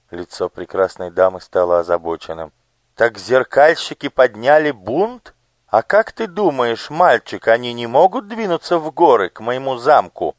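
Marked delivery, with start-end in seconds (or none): 2.9-10.3 high, bright-voiced curious lady; noble lady. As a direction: voice the gracious lady on horseback. (знатная дама, высоким голосом)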